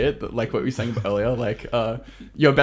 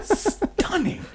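gushing, drawn out; 4 dB quieter than usual. Acted. Guest gushes over his orcs.

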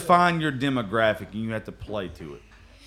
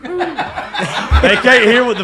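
laughing; 6 semitones higher, 7 dB louder, slower than usual. Real, not acted. Laughing at Nick's missing mic.

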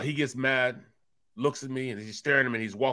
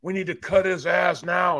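raised, higher mock rant at the rookie; retold angry yelling; 5 semitones higher, 3 dB louder than usual. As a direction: imitate a coworker yelling about the rookie. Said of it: "he started yelling".

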